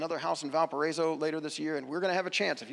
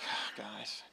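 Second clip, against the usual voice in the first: mildly exasperated sigh, then softly chiding; imagine a weary teacher let down by students; 5 dB quieter than usual. Retold or imitated. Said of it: "looks around exasperated".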